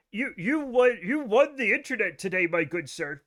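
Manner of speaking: lightly voiced pompous internet guy; a hint of smug forum politeness; Slater's voice. Mocking how friend Slater talks, a light pompous voice. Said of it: "that's how he fucking talks".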